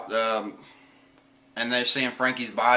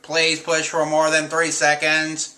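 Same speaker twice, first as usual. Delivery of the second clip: slow, even robotic announcement; mild mock robot voice; 4 semitones higher, 4 dB louder, slower than usual. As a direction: speak like a machine reading a prompt. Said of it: "he does the robot voice".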